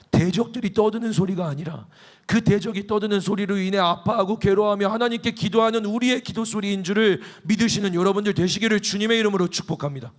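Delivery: ordinary talk, nothing marked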